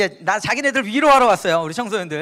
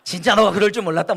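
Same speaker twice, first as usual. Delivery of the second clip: laughing mother; 4 dB louder than usual. Retold or imitated. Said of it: "하도 어이가 없어서".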